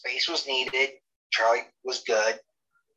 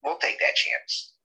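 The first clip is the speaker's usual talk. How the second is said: dismissive officials; 3 semitones lower, much slower than usual. Retold or imitated. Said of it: "And they're like".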